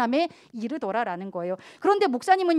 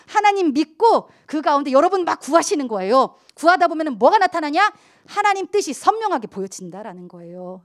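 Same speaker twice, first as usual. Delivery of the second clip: normal talking voice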